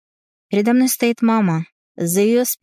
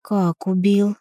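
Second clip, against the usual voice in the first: ordinary delivery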